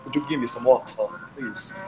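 American "water" with the tapped T and final R; polite request in an American accent. Shown as a demonstration. American accent, example request for water. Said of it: "por exemplo, water".

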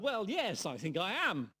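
reserved, hesitant reply; English reserve. Retold or imitated. Young man replying to the bearded hippie, reserved and hesitant. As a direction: answer politely, holding back. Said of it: "with typical English reserve".

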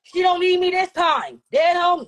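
slow, emphatic shouting; heated shout. Real, not acted. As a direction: shout it down, stretching the words. Shouting over the other in argument.

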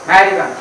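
"अमेरिकन" with the first ए swallowed, starting on "मेरिकन"; drop the A. Shown as a demonstration. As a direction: clip the opening vowel off "अमेरिकन". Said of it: "ए को खा जाना है". ("अमेरिकन" शुरू का ए खाकर, सीधे "मेरिकन")

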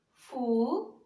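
"Funil" split softly as fu, nil; long pause between fu and nil in "Funil"; syllable by syllable. Shown as a demonstration. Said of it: "separa as sílabas". ("Funil" baixinho, com as sílabas bem separadas)

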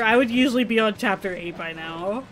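tipsy, a little loose and loud. Real, not acted. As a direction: talk like you've had some wine. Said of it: "drunk right now".

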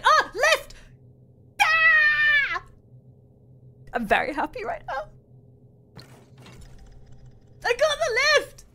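high, loud squealing over the lift; excited squeals. Real, not acted. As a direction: shriek with delight, then dismay. Excited then losing the lift.

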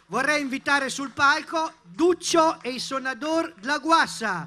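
loud stage announcement; announcer call. Real, not acted. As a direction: call them up loud and proud. Inviting band onto stage.

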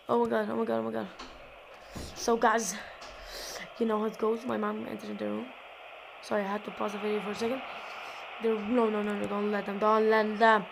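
low, soft, subdued voice; hushed. Real, not acted. Gamer after mom entered the room, hushed. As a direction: keep it down while still commentating.

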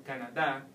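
"Canada" said Spanish-style, ending on a strong DA; stress on last syllable. Shown as a demonstration. Teacher showing what the tilde does, final-syllable stress. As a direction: land the weight on the final "da" of "Canada". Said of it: "stress the word in that syllable".

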